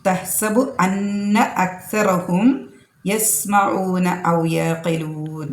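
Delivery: slow tajweed recitation, long drawn vowels; Quran recitation. Real, not acted. Teacher reciting a verse before explaining it, slow recitation.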